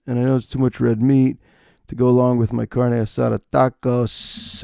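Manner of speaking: lightly dopey, drawn-out ums; hint of a slow, dim version of yourself; mildly dumb-sounding self. Comic mimicking himself ordering food, mildly dumb. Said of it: "just like I sound dumb when I'm like".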